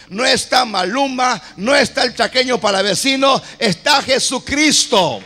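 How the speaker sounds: forceful church preaching, driving phrases; impassioned preaching. Real, not acted. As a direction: preach it out to the whole congregation.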